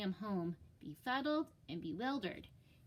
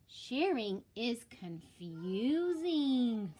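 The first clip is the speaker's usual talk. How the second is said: puzzled Clark; 5 dB louder, much slower than usual. Acted. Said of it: "said Clark".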